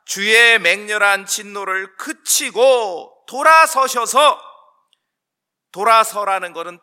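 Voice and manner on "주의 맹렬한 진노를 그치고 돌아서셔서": slow, loud, high plea; impassioned scripture plea; Moses' entreaty. Acted. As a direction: implore God with drawn-out, forceful words. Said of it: "모세의 간청입니다".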